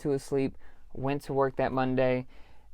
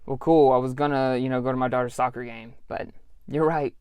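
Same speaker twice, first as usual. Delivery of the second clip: sarcastic reply; 3 dB louder than usual. Retold or imitated. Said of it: "It's just like".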